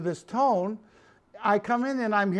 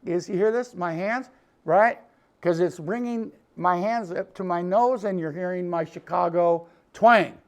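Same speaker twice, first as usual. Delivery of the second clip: hands cupped at face. Shown as a demonstration. Instructor showing viewers what ugly midrange sounds like, voice through cupped hands. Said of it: "put 'em up by your face, and do this".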